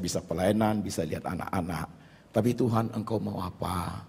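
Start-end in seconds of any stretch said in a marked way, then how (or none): 2.3-4.0 surrendered prayer. Retold or imitated. Preacher's spirit answering God in prayer, quietly surrendered. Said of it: "manusia rohku yang merespon".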